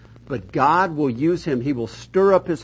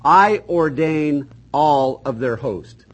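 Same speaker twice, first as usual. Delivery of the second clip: slow, louder, solemn voice of God; divine proclamation; 6 dB louder, slower than usual. Retold or imitated. Preacher voicing God declaring his rule, slow and weighty. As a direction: pronounce it like a sovereign decree. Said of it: "And so God says".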